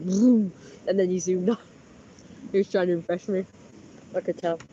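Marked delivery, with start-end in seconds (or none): 0.0-0.5 mock engine noise; engine vroom. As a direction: go vroom like a revving bike. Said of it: "he went".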